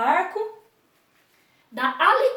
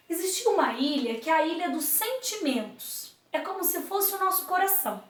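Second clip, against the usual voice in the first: put-on storytelling to children. A narrator's reading. Teacher telling pupils a story about the island. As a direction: draw the kids into the tale.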